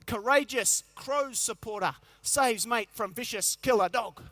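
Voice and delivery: slow, grand headline announcement; headline read. Pretend. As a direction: spell out a back-page headline slowly. Reading imagined headline.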